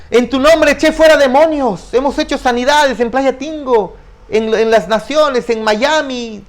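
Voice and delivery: mocking a preacher who boasts before the Lord; boasting false preacher. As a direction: parody a smug preacher listing his works. Voicing false preachers boasting to God.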